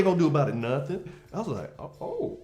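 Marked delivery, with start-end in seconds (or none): 1.8-2.4 surprised. Retold or imitated. Startled reaction imitated.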